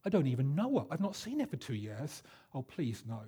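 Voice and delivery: understated, reluctant "please no"; uncomfortable reluctance. Retold or imitated. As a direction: plead mildly with yourself, trailing down. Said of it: "began to feel a bit uncomfortable".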